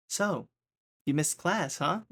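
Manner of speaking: high, knowing question; lightly voiced teacher catching him out; teacher's gotcha. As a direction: play the teacher springing the question.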